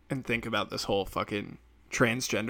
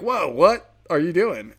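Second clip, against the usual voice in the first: mock alarmed bystander; 5 semitones higher, 7 dB louder, slower than usual. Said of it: "would someone be like".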